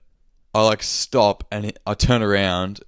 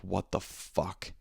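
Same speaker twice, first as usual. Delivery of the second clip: stunned inner thought; 11 dB quieter, much slower than usual. Retold or imitated. Stranger squats and stares.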